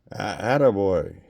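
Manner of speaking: slow, loud slurred attaboy; a satisfied drunk; boozy guest cheering the new bottle; drunk approval. Acted.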